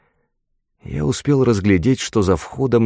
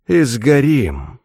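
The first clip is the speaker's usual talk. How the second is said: slow, drawn-out calm reply, slightly raised pitch; 5 semitones higher, much slower than usual. A narrator's reading. Luke to his companion as they fall, calm and slow. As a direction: say it calmly, stretching the words. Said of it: "спокойно добавил он".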